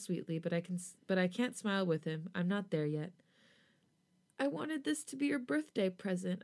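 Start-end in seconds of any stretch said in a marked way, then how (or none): 4.4-6.4 stammering. A narrator's reading. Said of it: "I stammer".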